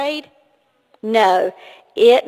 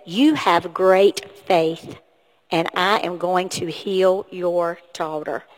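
slow, lower voicing of Jesus; solemn reassurance; 6 semitones lower, slower than usual. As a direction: gently deliver a measured promise of healing. Jesus's answer voiced for children.

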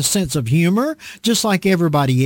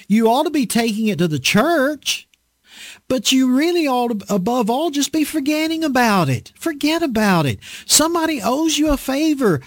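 Paul shouting; 5 semitones higher than usual. Retold or imitated. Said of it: "Paul is probably shouting this".

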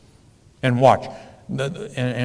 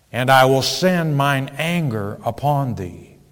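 scripture reading. Acted. Preacher reads scripture aloud.

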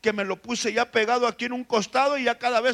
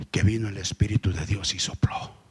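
hushed, breathy whisper; 12 semitones lower than usual. Acted. Preacher whispering as God's breath revives Lázaro. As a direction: breathe the words like a secret wonder.

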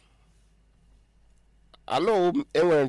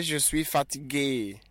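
slow model phrase; 2 semitones higher, 3 dB quieter, slower than usual. Shown as a demonstration.

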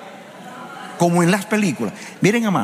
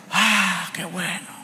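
mock sigh of relief; 3 semitones higher, 5 dB quieter, much slower than usual. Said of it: "usted dice".

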